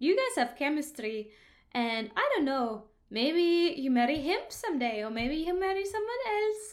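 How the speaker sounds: put-on accent from Bali. Retelling what a driver said on the way to the airport, Balinese accent. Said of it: "he said with his Balinese accent".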